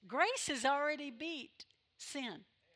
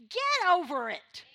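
slow, loud and higher; loud rebuke; 7 semitones higher, 11 dB louder than usual. Acted. Preacher telling a guilty listener to get over it, loud. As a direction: shake them out of it, loud and slow.

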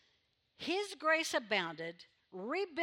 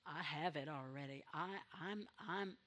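mock smug believer; 7 semitones lower, 9 dB quieter than usual. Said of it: "all day long and go".

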